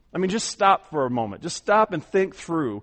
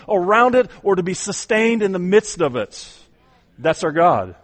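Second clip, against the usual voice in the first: louder, higher, building preacher's cry; full-force preaching; 7 semitones higher, 8 dB louder than usual. Acted. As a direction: lift the congregation with soaring proclamation.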